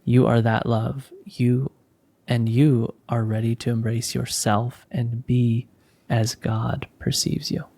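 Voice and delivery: measured, soothing spiritual blessing; guided meditation. Acted. Leader blessing the listeners as the meditation closes, guided meditation. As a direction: guide them gently with pauses between phrases.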